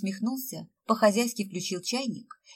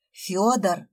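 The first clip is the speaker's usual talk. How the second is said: growled name; 4 dB louder than usual. Acted. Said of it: "прорычала Света".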